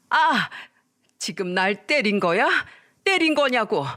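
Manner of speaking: disbelief turning to rage; a mother slapped by her husband, shrieking; shocked mother. Acted. Mother shocked at being hit.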